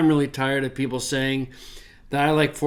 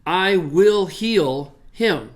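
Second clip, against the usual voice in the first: slow literal reading; 3 semitones higher, much slower than usual. Shown as a demonstration. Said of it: "then a future indicative".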